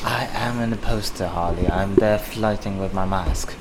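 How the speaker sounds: lightly voiced British villain; understated insistence in a British accent; a hint of a wounded scary guy; Black Mask. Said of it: "I'm supposed to be the scary British guy".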